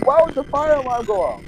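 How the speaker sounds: high, disbelieving squeak; incredulous. Retold or imitated. A kid stuck cleaning up in the restroom, high incredulous squeak. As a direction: act stunned and betrayed.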